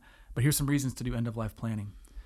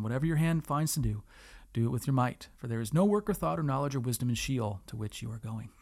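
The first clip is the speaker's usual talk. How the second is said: scripture reading. Acted.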